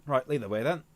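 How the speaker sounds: put-on same line slipping into a British accent; British-leaning accent. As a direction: let it fall back to British. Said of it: "still more British".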